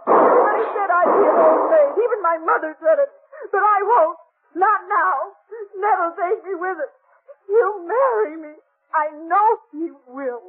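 cling to the hope aloud; desperate plea. Acted. Jenny pleading with Britt to let Ned stay, desperate.

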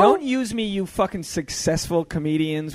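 fake-furious at his famous friends; mock outrage. Joking to the comedians, a mock angry outburst.

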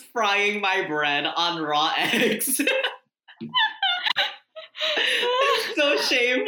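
laughing. Real, not acted. Laughing at friend's cooking words.

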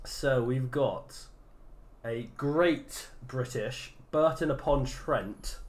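slow, drawn-out patriotic British patter; lingering pub-landlord style introduction; Al Murray. Pretend. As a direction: announce it very slowly, with ceremony. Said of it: "you sound like Al Murray".

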